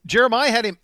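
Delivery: pumped, can't believe the luck; excited. Real, not acted. Excited about the draft board.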